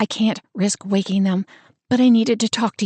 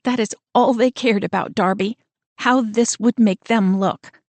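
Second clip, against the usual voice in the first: upset sister; 5 semitones higher than usual. Acted. Sister upset about parents' demand.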